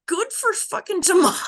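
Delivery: loud high cheer; excited. Real, not acted. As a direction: cheer her on with a shout.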